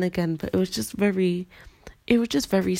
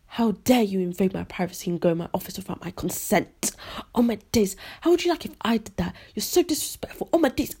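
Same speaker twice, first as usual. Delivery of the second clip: ballistic teachers; 2 semitones higher, faster than usual. Retold or imitated. Retelling teachers ganging up over the office, mock ballistic. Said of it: "They went ballistic".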